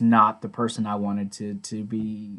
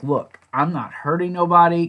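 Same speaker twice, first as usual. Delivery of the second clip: higher-pitched, mildly defiant retort; mildly belligerent; 5 semitones higher than usual. Retold or imitated. Jim pushing back at the worried group, a touch belligerent. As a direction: imitate someone starting to get belligerent. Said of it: "starting to get a little more belligerent".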